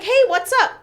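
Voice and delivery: high, loud mock-cheery hello; imitated breezy greeting. Mom pulls up at end of day, imitated loud breezy greeting. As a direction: call out an oblivious hello, imitating.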